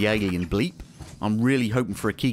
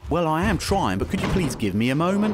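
sarcastic; 6 semitones higher than usual. Real, not acted. Snapping back at game prompt.

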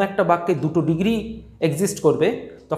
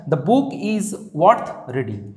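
slow, dictation-like reading; example sentence; 2 semitones lower, much slower than usual. Shown as a demonstration. Teacher dictates the example sentence slowly to students. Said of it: "এখানে worth কিন্তু বুক এই নাউনের পরেই এসছে".

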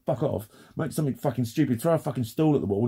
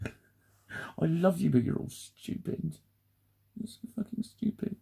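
teasing hush; 5 semitones higher, 5 dB quieter, slower than usual. Real, not acted. Teasing aside to audience.

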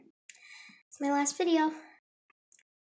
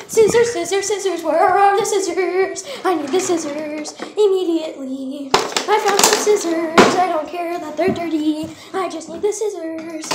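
frantic excitement; 6 dB louder than usual. Real, not acted. Vlogger hunting for scissors, loud and frantic. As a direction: call out urgently, stretching the words.

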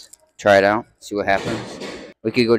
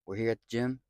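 tired and much softer; exhausted; 11 dB quieter than usual. Real, not acted. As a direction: wind down, spent after the workout. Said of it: "I am so whooped and tired".

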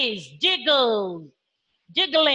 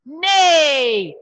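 horse neigh; 4 dB louder than usual. Shown as a demonstration. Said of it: "A horse neigh".

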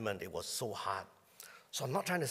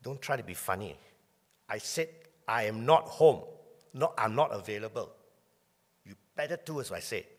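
a father shouting at his son over the phone lie, angry loud scold; 6 dB louder than usual. Retold or imitated. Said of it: "he will curse me, he will swear at me".

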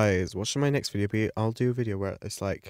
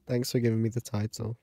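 thanks through a laugh, quick; faster than usual. Real, not acted. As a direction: laugh it out as you repeat. Laughs while repeating thanks.

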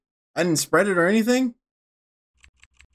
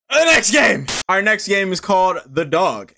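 big punchy game intro; show announcer. Real, not acted. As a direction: announce it like a host.

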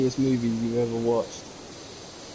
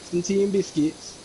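higher, chirpy Mancunian offer; teasing higher-pitched Mancunian imitation; mock Mancunian accent; 5 semitones higher, faster than usual. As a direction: call out in a put-on Manchester accent. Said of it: "taking the mickey out of their accent".

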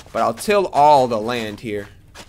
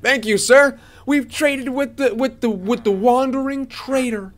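high, slow, drawn-out delight; 10 semitones higher, slower than usual. Real, not acted. Gamer thanking wandering trader after trade, delighted. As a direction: celebrate with pitch way up, stretching words.

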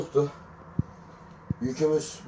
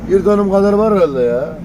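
incredulous rant; 6 semitones higher, 3 dB louder than usual. Real, not acted. Ranting about the huge roundabout.

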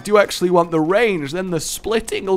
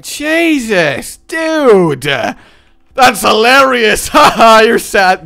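mocking laughter; 6 semitones higher, 10 dB louder, much slower than usual. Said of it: "you're just like".

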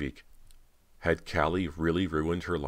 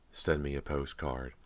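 bitter; 4 dB quieter than usual. Acted. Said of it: "a bitter laugh".

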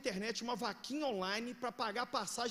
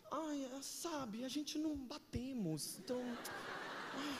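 much softer, slow, limp voice; mocking whiny spouse; 10 dB quieter, slower than usual. Pastor mocking couples who divorce over incompatibility, limp whine. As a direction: mimic a bored spouse lazily.

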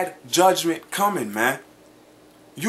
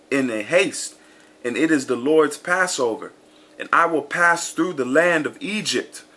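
measured, declaiming scripture reading; 3 semitones lower than usual. Acted. Preacher reading verses to his listeners, declaiming. Reads Exodus twelve aloud.

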